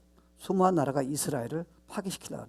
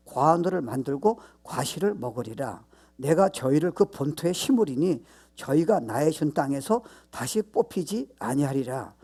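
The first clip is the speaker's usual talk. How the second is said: louder, measured proclamation of scripture, slowing near the end; solemn scripture reading; 4 dB louder than usual. Acted. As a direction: read the prophecy aloud like a pulpit declaration. Reads prophecy from Amos. (힘 있게 낭독하는 성경 말씀)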